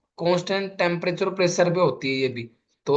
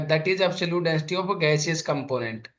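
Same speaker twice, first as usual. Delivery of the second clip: slow dictation; much slower than usual. Shown as a demonstration. Teacher to class writing the definition, slow dictation. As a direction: stretch every word of the definition.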